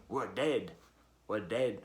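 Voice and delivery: put-on low, rough go at British rapper accent; attempted British accent. Reviewer quoting the rapper's repeated line, attempted British accent. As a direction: imitate a British rapper, not quite managing it. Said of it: "in a British accent".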